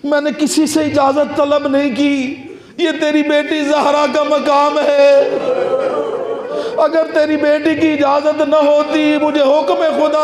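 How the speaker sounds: a solemn, lightly voiced angel of death who bears witness; angel of death speaking. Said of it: "मलकल मौत आ गया". (मलकल मौत की हल्की सी बदली हुई, थोड़ी ऊँची गंभीर आवाज़)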